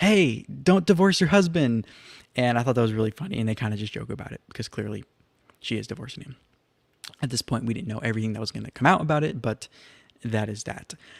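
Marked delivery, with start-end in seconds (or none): 0.0-1.9 high, mock-yelled shout. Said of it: "a lady yells to Erica".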